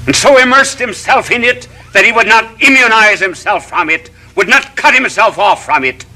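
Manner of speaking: rising from measured to soaring; preacher building to a climax; building sermon. Acted. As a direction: climb toward the triumphant close.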